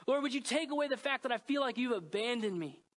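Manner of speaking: pleading prayer. Retold or imitated.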